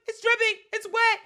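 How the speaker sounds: high, loud hammed-up panic; retold screaming. Panicked partner explaining to woken ex, mock screaming. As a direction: shriek each phrase in mock hysteria. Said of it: "I start screaming".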